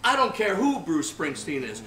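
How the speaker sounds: wife yelling him home, half laughing; mock furious shout. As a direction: bark the order through a laugh.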